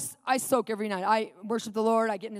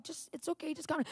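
soft, higher soothing voice; hushed, careful placating; trying to calm; 5 semitones higher, 11 dB quieter than usual. Retold or imitated. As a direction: act out gently talking someone down. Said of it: "when I tried to calm".

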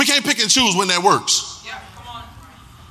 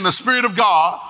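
louder congregation repeat; louder declaration. Shown as a demonstration. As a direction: call it out with more force. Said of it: "Say it again".

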